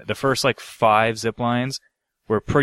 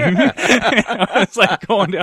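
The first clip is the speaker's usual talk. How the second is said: cracking up, high and loud; high-pitched laughing retelling; 9 semitones higher, 5 dB louder than usual. Real, not acted. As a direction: tell it through real laughter, dragging the words. Laughing through her own retelling.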